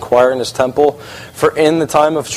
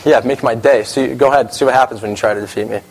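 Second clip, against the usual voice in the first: cocky dare; 2 semitones lower than usual. Retold or imitated. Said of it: "this attitude of".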